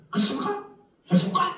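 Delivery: high-pitched old cult leader impression; mock a doddering leader's rising questions; Lee Man-hee. Cult leader quizzing his congregation, high-pitched mocking impression. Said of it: "거기 보면 이만희가 그렇게".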